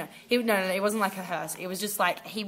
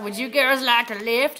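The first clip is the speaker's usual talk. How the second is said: creepy guy; 3 semitones higher, 4 dB louder than usual. Retold or imitated. Creepy guy voiced in story.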